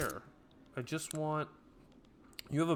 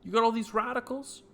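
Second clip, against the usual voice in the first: excited taunt; 9 semitones higher, 4 dB louder than usual. Real, not acted. Taunting radicals.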